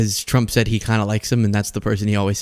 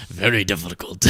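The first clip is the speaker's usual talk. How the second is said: put-on Trump accent; 5 semitones lower, 5 dB quieter than usual. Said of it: "Trump accent's morphing".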